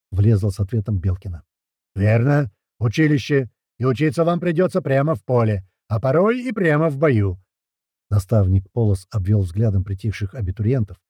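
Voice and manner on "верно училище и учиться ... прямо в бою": hearty, jeering instructor voice, higher; mocking drill sergeant. A narrator's reading. Sergeant ribbing the new recruit in a jeering drill voice. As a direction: sergeant playing to the crowd.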